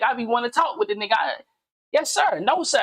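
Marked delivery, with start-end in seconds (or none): 1.9-2.8 a touch higher, polite yes-sir to the preachers; respectful yes sir. Shown as a demonstration. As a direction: show the respectful voice for the big dogs. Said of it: "And I don't talk like this".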